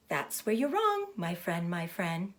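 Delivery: lightly voiced goose, repeating her words; a quick, fussy goose who says things twice; chattering goose. Goose calling out to the lonely pig Wilbur, lightly chattering. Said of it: "who talked rather fast".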